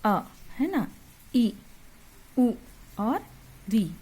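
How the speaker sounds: short clipped vowel sounds, each said briefly; said quickly. Shown as a demonstration. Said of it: "इसको हम लोग जल्दी से पढ़ेंगे".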